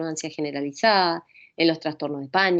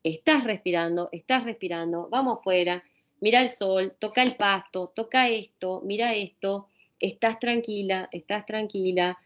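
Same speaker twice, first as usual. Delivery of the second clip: suave y tranquilizadora, cada vez más bajo; voz calmante. Shown as a demonstration. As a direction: calma a quien tiene pánico, con dulzura. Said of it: "Vos le decís". (hablándole suave a alguien con pánico)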